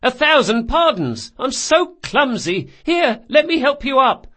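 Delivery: high, loud flustered apology; apologetic Carlo. Acted. Carlo to boy he knocked over, high fussing apology. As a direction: fuss loudly over the one knocked down.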